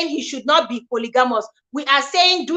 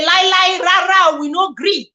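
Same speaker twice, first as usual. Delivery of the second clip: mock stubborn refusal; 3 semitones higher than usual. Acting out in-laws refusing apology.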